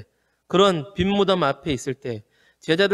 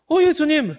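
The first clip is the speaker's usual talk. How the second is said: much higher and louder cry of 예수님 in sudden joy; overjoyed recognition; 14 semitones higher, 4 dB louder than usual. Retold or imitated. Mary at the tomb recognizing the risen Jesus, crying out in joy. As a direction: burst out as if seeing him alive again. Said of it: "마리아가 또 감동해가지고".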